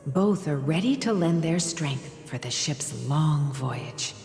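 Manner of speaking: hushed storytelling voice. Acted. Mother telling bedtime tale.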